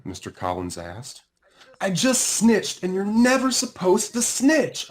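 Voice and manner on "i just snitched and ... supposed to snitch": high, loud rushed outburst; blurted out. A narrator's reading. Sammy blurting his guilt to Mister Collins, rushed and high. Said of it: "I blurted out".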